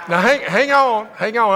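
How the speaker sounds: excited hold-on. Real, not acted. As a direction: rein in the cheering crowd. Preacher holds the crowd back.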